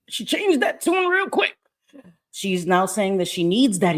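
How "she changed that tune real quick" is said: laughing. Real, not acted.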